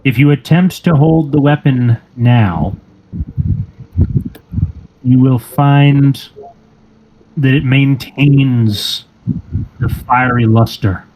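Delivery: slow, deliberate scene setting with long pauses; game master narration. Acted. Game master revealing the changed weapon to a player, slow narration. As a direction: unfold it phrase by phrase, slowly.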